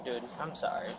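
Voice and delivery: cold and shivering; shaky, freezing voice. Real, not acted. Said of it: "I'm freezing".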